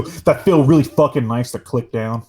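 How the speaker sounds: emphatic, punched-up enthusiasm; forceful, overly keen delivery; aggressive. Real, not acted. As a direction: punch the words a touch too hard. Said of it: "You said that really aggressively".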